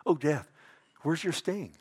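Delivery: lightly taunting, livelier question; mocking. Preacher shows how Paul mocks death, mildly taunting. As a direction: needle death with a mild mocking lilt. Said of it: "He's mocking it".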